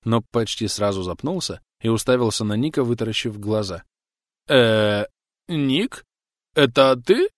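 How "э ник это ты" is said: surprised. Acted. Drunk recognizes old friend.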